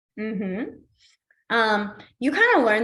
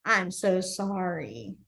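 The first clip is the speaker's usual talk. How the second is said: dramatic apology; 3 semitones lower than usual. Shown as a demonstration. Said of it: "pretend like you're in a drama or in a play".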